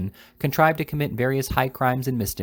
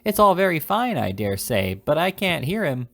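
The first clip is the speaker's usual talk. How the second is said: put-on old lady; 7 semitones higher than usual. A narrator's reading.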